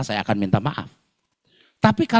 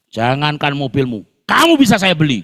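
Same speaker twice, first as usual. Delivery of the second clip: arrogant threat; 5 dB louder than usual. Retold or imitated. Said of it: "gitu bilangnya".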